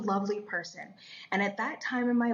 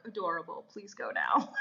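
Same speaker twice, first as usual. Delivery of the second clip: lightly voiced patient God, dropping lower; God, unimpressed; 3 semitones lower than usual. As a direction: dismiss the excuse with a hint of dry authority. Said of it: "And God's like".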